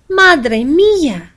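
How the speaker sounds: high, loud gasp of amazement; shocked cry. A narrator's reading. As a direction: cry out at the shining star. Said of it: "cried Petra".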